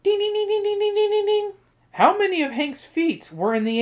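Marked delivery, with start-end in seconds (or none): 0.0-1.5 game show ding. Pretend. Quiz host, correct answer.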